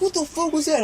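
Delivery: very high-pitched mock outburst; imitating outraged neighbor. Neighbor reacts to his kicked door, imitated outrage. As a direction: imitate an outraged man, voice jumping way up.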